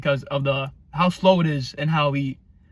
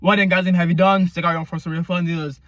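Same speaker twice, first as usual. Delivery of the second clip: louder sung mock scream; shout-sing the line; 2 semitones higher, 4 dB louder than usual. Fan imitates the singer screaming the chorus, mock scream. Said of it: "he screams".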